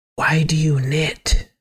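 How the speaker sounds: whispered voice. Voicing a character who leans close to ask a question: whispering in character. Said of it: "I'm gonna whisper this to you".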